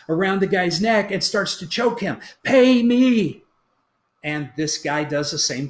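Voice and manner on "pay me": loud, higher, harsh "Pay me"; angry demand. Acted. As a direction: bark it with your hands on his neck. Servant choking the debtor, demanding.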